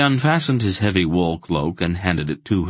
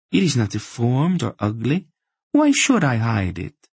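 higher-pitched woman answering back; slave woman; 6 semitones higher than usual. Acted. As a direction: voice her higher, defending herself unabashed.

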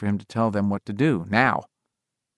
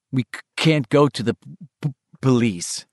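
stuttering; 2 semitones higher than usual. Acted. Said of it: "he said at last".

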